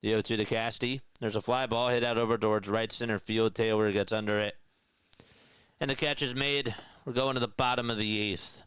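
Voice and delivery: brisk radio call of a fly ball; live play-by-play. Acted. Radio announcer calling a catch to listeners, brisk play-by-play.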